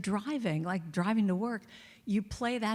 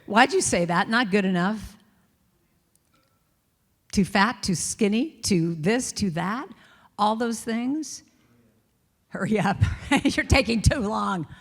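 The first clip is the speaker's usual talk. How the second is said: inner critic nagging; 6 dB louder than usual. Acted.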